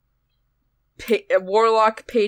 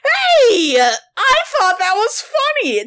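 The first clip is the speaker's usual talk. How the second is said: laughing; 9 semitones higher, 4 dB louder, slower than usual. Real, not acted. Defending her joke, laughing.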